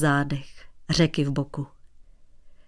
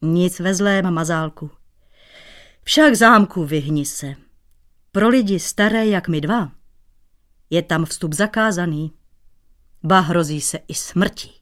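good-naturedly. Acted. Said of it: "řekl dobrácky".

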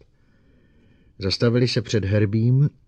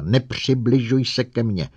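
loud, higher, fast furious shriek; shrieking at the robot; 4 semitones higher, 6 dB louder than usual. A narrator's reading. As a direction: drive the robot off with a scream. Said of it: "vřískla na robota".

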